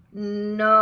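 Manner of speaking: "No" held long, O rounding into oo; back-of-throat O. Shown as a demonstration. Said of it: "resonates at the back of the throat".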